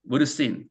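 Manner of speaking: "would seen" said "wudda seen", no v; v dropped. Shown as a demonstration. Teacher showing fast speech, "would seen" linked as "wudda seen". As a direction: run "would" into "seen" with only a schwa between. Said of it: "거의 would 정도로 발음이 됩니다".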